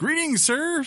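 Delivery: put-on voice, pitched very high. Reading out a listener's email, giving its writer a put-on voice. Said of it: "I was just putting a voice to it".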